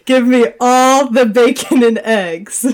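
slow and loud, leaning hard on "all"; stress on all. Acted. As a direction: spell it out slowly, punching "all" to correct a mishearing. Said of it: "What I meant was".

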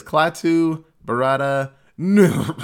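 "Klaatu, Barada" said firmly, then a cough where the last word should be; cough over the last word. Retold or imitated. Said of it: "and coughs like he said it".

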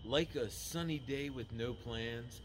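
slow, low sultry read. Pretend. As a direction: purr it like a sexy ad read. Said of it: "read anything in a sexy, sultry voice".

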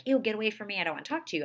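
mock rejection. Mom showing how she avoids answering her upset daughter, mock disgusted brush-off. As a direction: push the kid away in mock annoyance. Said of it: "I don't make it like".

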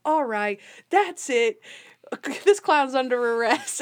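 hammed-up stern arrest order; mock fed-up outburst. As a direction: act out losing patience with a clown. Imitates fed-up captain arresting clown.

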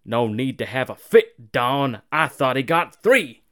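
imitated annoyed commentator, loud bursts; mock irritated retort. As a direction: grumble back testily as the old announcer. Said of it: "fucking actually annoyed".

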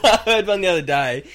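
high, loud, talking through laughter; laughing hard. Real, not acted. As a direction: barely get it out for laughing. Cracking up after own joke.

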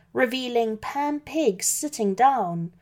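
usual speaking voice

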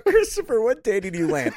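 mock pilgrim voice. Voicing pilgrim to Columbus.

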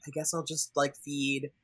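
lightly imitating someone going through the motions; reluctant resignation. Louis giving in to feeding, imitated as softly resigned. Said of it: "doing his whole, like".

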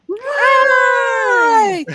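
loud high cheer; cheering shout. Acted. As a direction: yell it to the crowd. Cheering along.

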